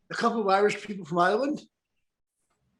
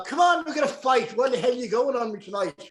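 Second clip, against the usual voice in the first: Irish brogue; 3 semitones higher than usual. Retold or imitated. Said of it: "Let's hear it. How did he sound?".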